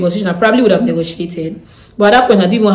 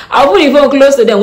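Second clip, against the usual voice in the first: laughing; 7 semitones higher, 7 dB louder than usual. Real, not acted. Laughing recalling the trick.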